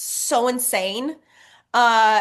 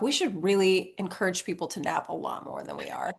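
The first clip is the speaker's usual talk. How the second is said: whispered thought; 3 semitones lower, 6 dB quieter than usual. Retold or imitated. Inner thought said softly.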